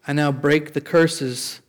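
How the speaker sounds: slow, deliberate prayer phrases; measured repeat-after-me prayer; leading a prayer. Real, not acted. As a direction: leave room for the room to repeat.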